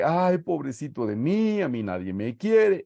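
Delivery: mocking a sulky self-pitying moan.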